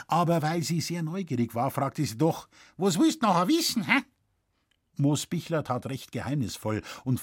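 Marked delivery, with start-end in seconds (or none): 2.8-4.0 put-on high, quick prying old woman voice; pry at him fast and high; nosy old woman. A narrator's reading. Curious widow pressing the forester, high and quick.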